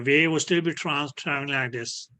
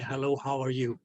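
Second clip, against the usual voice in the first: softer echoed repeat, like a voice bouncing off a wall; 5 dB quieter than usual. Shown as a demonstration. Teacher imitates the greeting returning as an echo, softer. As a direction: let it come back at you faintly. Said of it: "you hear your own voice saying".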